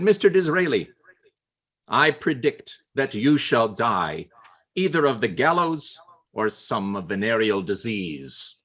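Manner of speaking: slow, deliberate, solemn pronouncement; Gladstone's insult. Acted. Gladstone predicting Disraeli's doom, slow and grave. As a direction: lay the curse on him slowly.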